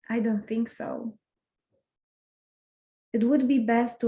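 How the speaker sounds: measured poem recital with pauses between lines; poem reading. Acted. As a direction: read it line by line, letting each phrase rest. Reads a second poem aloud.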